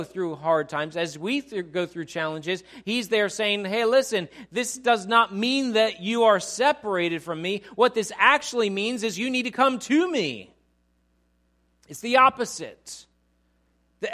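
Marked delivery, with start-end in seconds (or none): 3.7-10.5 God's voice. Acted. God voiced reassuring in sermon.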